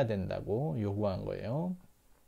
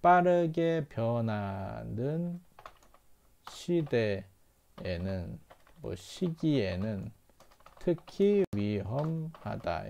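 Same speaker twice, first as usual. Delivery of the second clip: slow, deliberate model reading; teacher reading it slowly for students; slow model translation; much slower than usual. Shown as a demonstration. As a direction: lay out the translation piece by piece, slowly. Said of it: "이렇게 읽으시면 됩니다".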